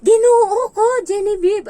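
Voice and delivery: put-on loud high child's cry of alarm; child's shout. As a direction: yell it like a startled kid. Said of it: "sisigaw pa yan".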